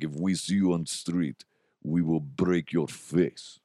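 imitated Russian threat, slowing to the end; deliberate mock-Russian heavy; Russian accent. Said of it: "Russians actually threatened my".

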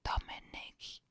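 slow, strained gasp of a name; gasping caller. Acted. Caller on the phone gasps Dominik's name. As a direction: drag the name out on the last breath. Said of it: "Sie sprach röchelnd und keuchend".

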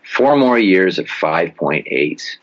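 deliberate doom-laden slow read; slow ominous stress. Shown as a demonstration. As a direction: let every number land slowly to scare them. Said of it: "Let me just pause for a second after I say that, just to scare some people".

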